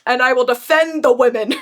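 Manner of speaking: hammed-up gallant vow with a laugh; mock-heroic declaration. Host mocking the hero who got strong, mock-heroic.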